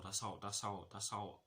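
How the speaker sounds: tripping over his words; stumbling, repeating the same words; stuttering. Real, not acted. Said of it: "Sorry, sorry for stuttering".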